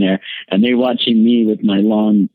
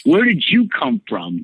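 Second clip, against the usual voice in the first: much higher, mock bewildered cry; retold alarm; 11 semitones higher than usual. Asking the men in jumpsuits, high mock alarm. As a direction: act out being baffled by intruders. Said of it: "I was like".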